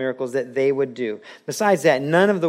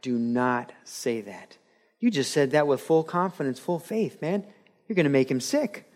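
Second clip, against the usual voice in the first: stern rebuke; 4 dB quieter than usual. Retold or imitated. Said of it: "To which Al replied".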